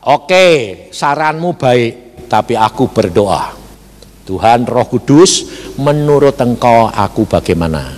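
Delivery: low, measured imitated prayer; calm reply. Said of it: "lalu dia berkata". (menirukan jawaban tenang dan doa)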